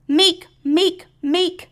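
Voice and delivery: high little repeated "meek" sounds; imitated creeping noise. A narrator's reading. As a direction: squeak out each step. Story sound of iguana walking off.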